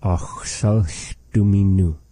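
Achsalch dominu said slowly, dominu as doo-mee-noo; slow careful model. Shown as a demonstration. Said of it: "So you hear the way that Arthur is saying it".

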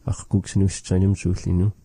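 fast, clipped-free model sentence for a learner; quick model phrase. Shown as a demonstration. Teacher models the phrase fast for the learner. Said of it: "maybe you could say it like that".

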